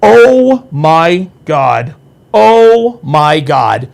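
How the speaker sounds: slow, drawn-out amazement; stunned oh my god. Real, not acted. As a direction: stretch each word in disbelief. Stunned by a joke in chat.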